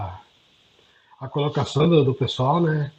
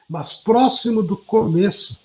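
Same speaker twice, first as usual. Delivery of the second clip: ordinary talk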